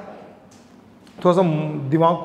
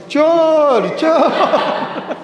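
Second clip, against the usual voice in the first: shouting thief; 8 semitones higher, much slower than usual. Shown as a demonstration. Teacher shows student how to yell thief. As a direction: demo how to scream for help. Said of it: "कैसे चिल्लाएगी?".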